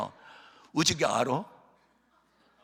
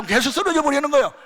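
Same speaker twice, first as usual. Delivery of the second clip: higher, louder, stress on 쓰러져; emphatic telling; 9 semitones higher, 7 dB louder than usual. Retold or imitated. Preacher stressing the father's collapse to the crowd, louder. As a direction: hit 쓰러져 hard and high.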